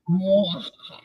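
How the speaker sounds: sneering villain cackle; evil laugh. Shown as a demonstration. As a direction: laugh like a cartoon baddie. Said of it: "it becomes evil".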